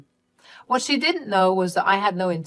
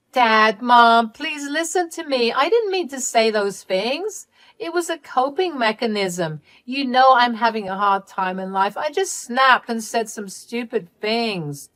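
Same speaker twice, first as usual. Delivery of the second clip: tearful begging; 5 semitones higher than usual. Acted. Exposed daughter begging her parents for forgiveness, high and pleading. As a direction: beg them to forgive you.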